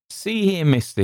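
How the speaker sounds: high hail into the dark; calling out. A narrator's reading. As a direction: hail a stranger across the water. Sailor hails unseen stranger in darkness.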